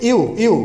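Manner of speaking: ইউ sounding like English "you"; pronunciation demo. Shown as a demonstration. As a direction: model ইউ twice as a separate sound. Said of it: "sounds like you".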